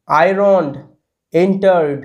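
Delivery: আয়রনড, এন্টার্ড closing on a half d without a vowel; correct short-d ending. Shown as a demonstration. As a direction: model আয়রনড and এন্টার্ড separately, stopping on d. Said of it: "কেমনভাবে উচ্চারণ হবে". (আয়রনড, এন্টার্ড: শেষে ছোট ড উচ্চারণ)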